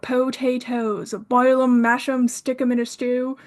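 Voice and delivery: lightly voiced hobbit accent; a hint of a bad hobbit impression; half-serious movie-quote voice, words chanted out one by one; Samwise Gamgee. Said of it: "when Samwise Gamgee is talking to Gollum".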